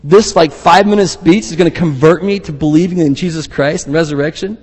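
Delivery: a hint of mocking incredulity; incredulous. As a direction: scoff at the idea. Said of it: "He's kind of incredulous".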